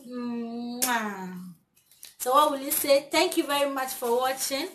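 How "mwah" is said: kiss sound for her son. Real, not acted. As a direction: blow a kiss. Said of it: "give mommy a kiss".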